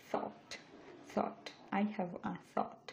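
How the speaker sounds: thought with a clear th and long aw; English pronunciation demo. Shown as a demonstration. Teacher modelling thought for Bangla learners. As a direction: say thought slowly, the th soft. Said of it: "তাহলে এটার উচ্চারণ হবে".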